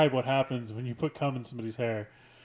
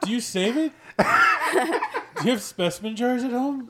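high, loud question through laughter; amused, laugh-filled incredulity; laughing tease; 9 semitones higher, 6 dB louder, slower than usual. Real, not acted. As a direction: tease a friend while cracking up. Teasing friend while both laugh.

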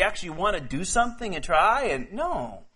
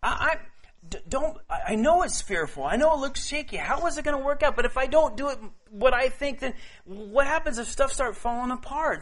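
higher, stammering worried voice; anxious believer; 6 semitones higher than usual. Acted. Believer stammering worries to God, higher and anxious. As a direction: let the doubt tumble out, stammering.

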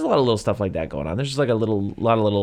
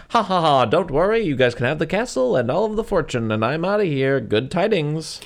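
hammy town address; 6 semitones higher than usual. Retold or imitated. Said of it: "He goes".

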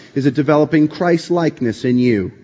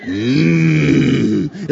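relishing mm; 3 semitones higher than usual. Acted. Relishing the verse he just voiced.

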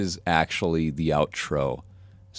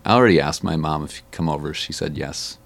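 put-on kid asking friend over; 3 dB louder, faster than usual. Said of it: "like, saying".

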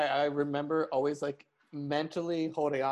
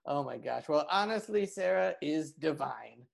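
lightly voiced insult comic; dry roast delivery, barely changed from usual; a hint of a smug roaster; roast comic Raz. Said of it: "insult roast comic, Raz Clifford".

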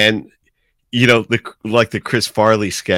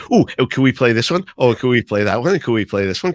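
put-on like little kids; 3 semitones higher, faster than usual. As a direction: play it like a kid begging for a treat. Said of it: "we'll all be little kids going".

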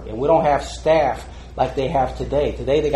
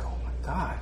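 stunned disbelief; 7 semitones higher, 3 dB louder than usual. Retold or imitated. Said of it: "it was like".

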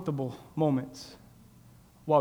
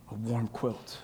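soft savouring; 4 semitones lower, 5 dB quieter, much slower than usual. Shown as a demonstration. Savours the phrase, then repeats softer.

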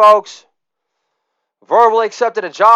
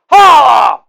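loud higher holla, dropping at the end; shouted catchphrase; 3 semitones higher, 5 dB louder than usual. Acted. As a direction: belt out holla, pitch falling.

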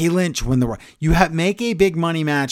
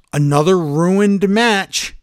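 high, slow mock yell; drawn-out, raised-voice imitation; imitated yelling official; 5 semitones higher, 4 dB louder, slower than usual. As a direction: holler it like an exasperated official. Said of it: "The homeless man screams a lot".

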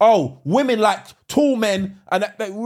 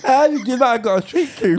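toothless woman; 3 semitones higher than usual. Acted. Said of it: "You ain't got any teeth".

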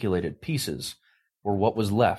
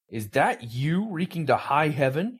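thundering; 6 semitones higher than usual. Acted. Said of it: "he thundered".

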